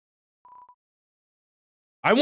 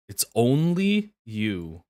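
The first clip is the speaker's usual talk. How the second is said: slow dramatic; 6 semitones lower, 3 dB quieter, much slower than usual. Acted.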